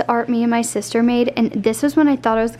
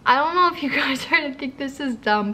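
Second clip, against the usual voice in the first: tearful; 2 semitones higher than usual. Real, not acted. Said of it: "but I am just sobbing".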